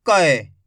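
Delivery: teacher stressing the ai sound; forceful ai. Shown as a demonstration. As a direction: punch कै hard. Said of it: "जोर लगा के पढ़ेंगे".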